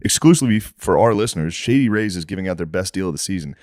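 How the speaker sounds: podcast host's sponsor read. Acted. Host pitching Shady Rays shades to listeners, ad read. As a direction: read out the sponsor copy with steady sales polish.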